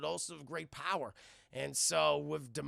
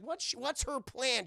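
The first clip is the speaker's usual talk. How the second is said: raised pitch, rhetorical question; intrigued question; 6 semitones higher, slower than usual. Real, not acted. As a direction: toss the puzzle excitedly to the audience. Asks chat, then repeats slowly.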